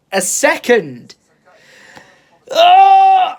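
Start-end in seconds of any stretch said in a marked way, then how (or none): 2.5-3.4 high, loud burst of glee; dreaming of fast internet, whooping; excited cry. Real, not acted. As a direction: whoop with delight.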